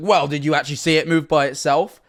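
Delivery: normal talking voice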